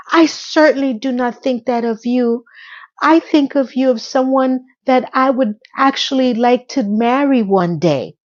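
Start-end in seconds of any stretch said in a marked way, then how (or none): 0.1-2.4 mock sincere. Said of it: "he says the words".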